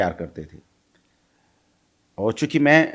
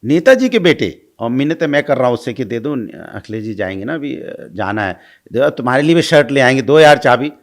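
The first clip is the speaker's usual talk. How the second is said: pleading for the keys; 4 dB louder than usual. Retold or imitated. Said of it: "मिन्नतें की थी".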